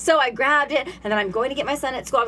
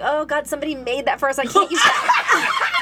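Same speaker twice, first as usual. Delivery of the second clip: laughing protest. Retold or imitated. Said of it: "I was like".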